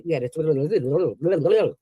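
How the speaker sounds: the words you had to stretched very slowly; slow contrast; slow drawn out. Shown as a demonstration. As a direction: drag it out slowly after the rush. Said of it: "did you understand what I said?".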